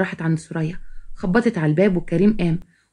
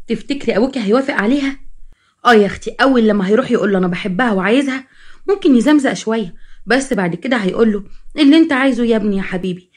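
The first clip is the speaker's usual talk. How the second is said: lightly voiced animated schemer; mildly scandalized storybook sister; gossiping sister, worked up; 3 semitones higher than usual. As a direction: gossip eagerly with a raised pitch. Narrator voices second gossiping sister.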